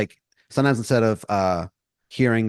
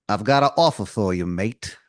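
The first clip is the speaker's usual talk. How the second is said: bad English accent. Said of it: "terrible English accent".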